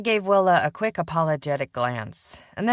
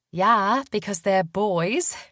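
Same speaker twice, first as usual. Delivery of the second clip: put-on young woman voice; 6 semitones higher, slower than usual. A narrator's reading. Willa speaking.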